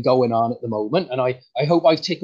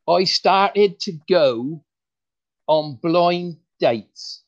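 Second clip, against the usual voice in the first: slow, deliberate punchline setup; first try at the joke, stretched out; slow joke delivery; 2 semitones higher, 3 dB louder, much slower than usual. Shown as a demonstration. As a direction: draw out each word for the joke. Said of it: "let's start that again".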